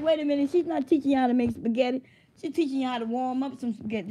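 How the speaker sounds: playfully outraged reaction; retold indignation. Acting out indignant reaction to video.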